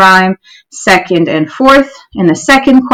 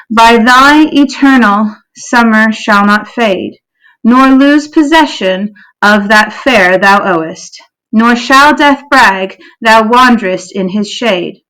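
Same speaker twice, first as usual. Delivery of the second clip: slow, measured sonnet recitation; poem reading. Real, not acted. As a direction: read the sonnet aloud slowly, pausing after each line.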